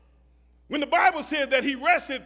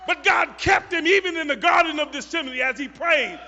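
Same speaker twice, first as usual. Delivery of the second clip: preaching at full force; 3 semitones higher, 6 dB louder than usual. Acted. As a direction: whoop it up like a Black church climax.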